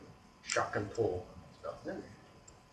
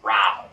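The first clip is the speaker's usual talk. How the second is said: short loud mock growl; brief beastly noise; imitated growl; 3 semitones lower, 10 dB louder than usual. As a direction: imitate the creature's big growl.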